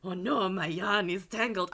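slow, badly faked French accent; botched mock-French accent, drawn out; muddled accent. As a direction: attempt French and let the accent go astray. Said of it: "what accent was that".

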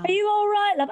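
a hint of a kindly policeman checking on her; police officer asking. Two police officers asking the fallen woman, mildly mock-concerned. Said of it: "I heard these two voices going".

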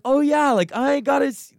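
hammed-up chirpy self-impression; mock excited voice. Mock-eager voice pitched high, talking to the sound guy. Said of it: "I was like".

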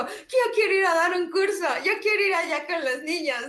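high, loud and eager; eager excitement. Retold or imitated. She tells the boy she wants to teach there, excited. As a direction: burst out wanting to go teach the kids.

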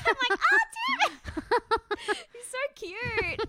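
high laughing gush. Real, not acted. Gushing over Tim on TV, high and giggling. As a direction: coo over him through giggles.

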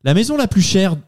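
TV documentary voice. Acted. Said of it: "la voix du métro".

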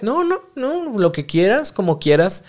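high, sing-song fake agreement; exaggerated whatever-you-want; passive-aggressive. Shown as a demonstration. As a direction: pretend it's fine when it isn't. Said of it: "en esta actitud pasivo-agresiva".

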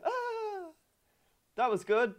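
high mock moan of relief; faked satisfaction. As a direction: sigh high, badly faking contentment. Retold fake relief after partner finished.

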